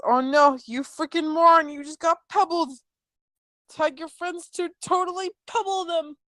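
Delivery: high mock-dismay voice, rising as it goes; mocking meme voice. Meme tells the fooled chat they got pebbled, high mocking voice. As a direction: read the meme in a climbing high voice.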